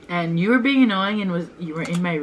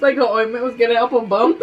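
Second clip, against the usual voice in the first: amused disbelief; 5 semitones higher, 5 dB louder than usual. Real, not acted. Mocking her sister's ointment remedy.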